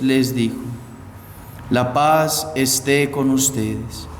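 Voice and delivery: measured liturgical reading voice; Gospel proclamation. Acted. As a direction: read the Gospel solemnly to the congregation.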